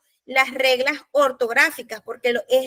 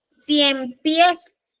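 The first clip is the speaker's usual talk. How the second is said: Cien pies with the weight on the final PIES; stress on PIÉS. Shown as a demonstration. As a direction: land firmly on pies in Cien pies. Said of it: "La entonación está en la E". (Cien pies con fuerza en la última E)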